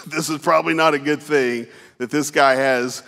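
laughing. Real, not acted. Laughs at own memory.

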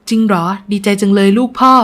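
delighted father's exclamation; overjoyed. A narrator's reading. Father hearing of daughter's rich match, overjoyed. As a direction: burst out with joy. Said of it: "นายวันดีใจจนเนื้อเต้น".

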